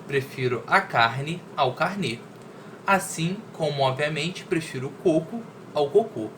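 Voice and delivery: measured, deliberate reading with pauses between phrases; poem read aloud. Acted. Teacher reading a wordplay poem to students, measured recitation. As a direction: recite it clearly, setting off each wordplay.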